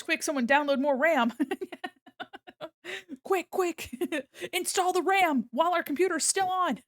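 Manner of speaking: high, hurried joking alarm; hammed-up urgency over ram; mock panic. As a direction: pretend tech panic. Panic joke about ram.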